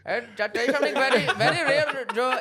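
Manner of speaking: fast, high laughing impression; Max Holloway impression. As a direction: rattle it off quickly, laughing. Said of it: "Max Holloway on Joe Rogan".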